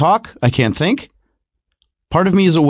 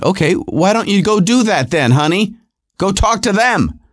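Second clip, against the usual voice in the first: exasperated retort; 3 semitones higher than usual. Retold or imitated. Husband snapping back at wife.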